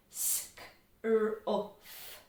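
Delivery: S, k, R, uff in separate sounds; sounding out. Shown as a demonstration. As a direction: break it into S, k, R, uff.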